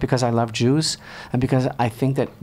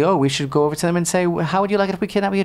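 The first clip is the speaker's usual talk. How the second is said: facetious; 5 semitones higher, faster than usual. Retold or imitated. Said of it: "completely facetiously".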